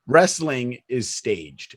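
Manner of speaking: wrestling said slow and weighty; slow, deliberate "wrestling is staged"; stress on wrestling. Shown as a demonstration. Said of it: "It's not fake".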